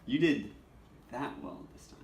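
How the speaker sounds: "did" stressed, then a pause and a drop. Shown as a demonstration. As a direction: hit "did", let the rest fade. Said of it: "different inflection on the words".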